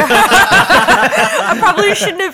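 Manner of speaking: talking with food in mouth; words round a bite of snack; mouth full. Real, not acted. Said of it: "Sorry, I'm eating a snake".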